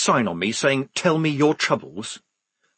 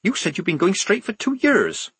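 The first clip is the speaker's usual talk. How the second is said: higher, incredulous scolding; hissed accusation; 9 semitones higher than usual. A narrator's reading. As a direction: accuse a friend in an urgent hiss. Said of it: "she hissed".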